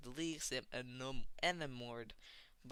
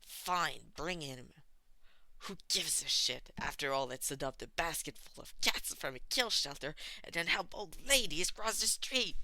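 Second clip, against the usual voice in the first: sarcastic; 3 semitones higher, 5 dB louder than usual. Acted. Tomura sarcastic.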